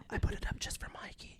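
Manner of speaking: breathy, secret whisper, high and hushed; sly whisper. Real, not acted. Teasing husband about the bedroom tree, whispered. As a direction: let it slip like a naughty secret.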